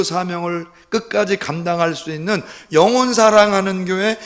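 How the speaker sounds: impassioned preaching. Acted. Preaches the church's mission.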